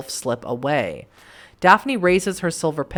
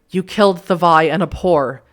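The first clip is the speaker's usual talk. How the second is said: snarling; 5 dB louder than usual. Acted. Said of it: "Daphne snarls".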